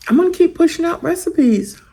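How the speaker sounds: talking through a mouthful; words round a bite of food; mouth full. Real, not acted. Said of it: "I hate to talk with my mouth full".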